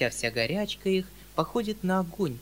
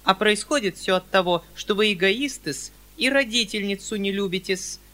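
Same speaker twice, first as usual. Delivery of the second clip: with dignity; 6 semitones higher, 6 dB louder than usual. A narrator's reading. Perepelitsyna answers the uncle with prim dignity. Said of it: "с достоинством отвечала".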